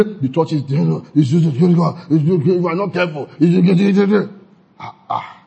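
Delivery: sputtering, broken-off complaint; jumbled mock griping, ending in wordless sighs; mock careless criticism. Shown as a demonstration. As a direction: imitate a fault-finder grumbling in fragments. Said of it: "Don't talk like that".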